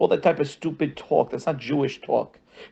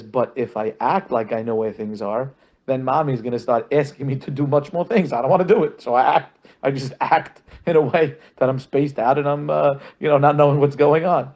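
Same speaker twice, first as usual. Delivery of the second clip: mock protest; 4 dB louder than usual. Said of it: "He says".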